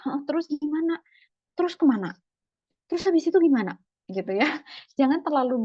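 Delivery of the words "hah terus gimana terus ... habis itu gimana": higher and louder with each question, pressing for more; pushy rapid questions. Acted. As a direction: fire questions like a nosy interrogator, building up.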